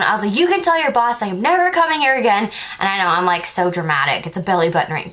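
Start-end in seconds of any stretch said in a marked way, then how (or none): 0.4-2.4 mild mock yell, higher pitched; retold yelling. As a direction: re-enact an angry outburst without much extra volume. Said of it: "yelling at the phone".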